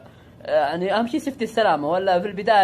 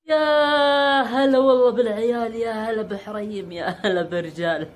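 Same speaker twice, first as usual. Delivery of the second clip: put-on drawn-out, slow welcome like an old TV presenter; hammed-up broadcaster hello; mock TV host greeting; 4 semitones higher, slower than usual. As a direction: stretch the greeting like a showman.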